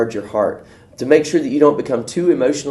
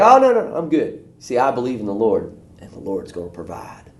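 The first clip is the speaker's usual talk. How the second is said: breezy refusal. Retold or imitated. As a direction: shrug it off, then settle. Man refusing boat.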